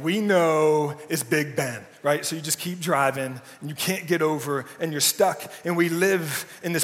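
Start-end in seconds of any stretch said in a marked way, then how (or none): 0.0-1.9 slow, weary "we know"; bored kids. Retold or imitated. Kids in the car, tired of their dad, weary and slow. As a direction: drag it out like fed-up kids. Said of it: "they're like".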